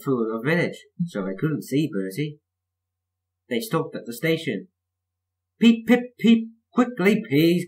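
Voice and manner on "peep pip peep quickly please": high, loud whistle-like call. A narrator's reading. Thomas hurrying passengers at the station, calling out. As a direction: pipe it up high like an engine's toot. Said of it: "called Thomas".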